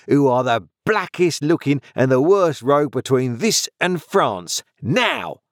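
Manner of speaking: high-pitched scolding tirade; mounting rage. A narrator's reading. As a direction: hurl insults as a wife working herself up. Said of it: "beginning to work herself into a mighty rage".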